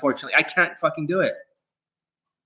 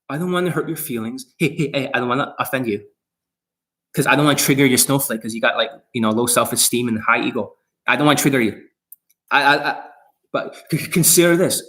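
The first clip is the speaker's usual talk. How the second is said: mocking soft coach voice. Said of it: "That's how R S D talks to you guys".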